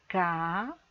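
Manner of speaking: "carrossel" drawn out as ca, rro, ssel with long pauses; very slowly, by syllables. Shown as a demonstration. Teacher showing how to separate syllables, "carrossel" said very slowly. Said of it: "vou falar essa palavra bem devagar".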